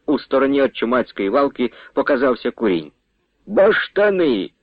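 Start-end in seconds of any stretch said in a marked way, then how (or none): 3.5-4.5 excited exclamation. A narrator's reading. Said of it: "вигукнув Матвій".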